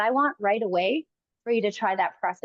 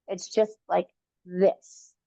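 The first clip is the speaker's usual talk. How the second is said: slow demo; 3 semitones lower, much slower than usual. Shown as a demonstration. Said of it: "instead of that".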